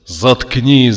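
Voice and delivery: громкий злой окрик; заорать, обрывая нытьё. A narrator's reading. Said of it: "заорал Макс". (гневный крик)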